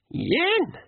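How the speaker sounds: sharp high yelled count; pixie shout. A narrator's reading. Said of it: "shouted the Nac MacFeagle".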